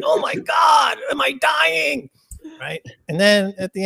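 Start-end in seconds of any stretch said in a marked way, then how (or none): 0.0-2.1 high, shouted mock panic; panicked yelp. A squealing fan's mock panic at his own death. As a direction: yell it like you think you're dying. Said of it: "They're like".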